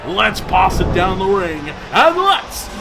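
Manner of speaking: booming wrestling announcer hype; ring announcer. Acted. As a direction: sell each name to the arena.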